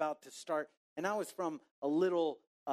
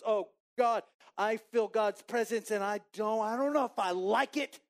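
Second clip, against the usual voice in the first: raised, mildly panicked protest; acted overwhelmed plea; 3 semitones higher, 4 dB louder than usual. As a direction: plead with God, a touch of panic. Retold overwhelmed plea to God.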